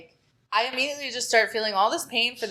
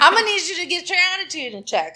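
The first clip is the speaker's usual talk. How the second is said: sassy inner voice; 10 semitones higher, 8 dB louder, faster than usual. Retold or imitated.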